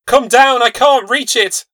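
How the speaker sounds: high, loud panting call; loud cry. Acted. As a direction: shout for help, straining. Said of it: "she cried loudly".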